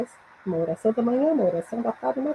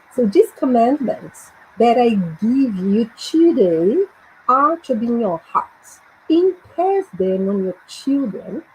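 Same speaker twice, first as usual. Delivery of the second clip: slow, measured verse reading; deliberate model reading in English; teacher's English read-aloud; slower than usual. Shown as a demonstration. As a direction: read the verse phrase by phrase for learners. Reads verse once more for learners.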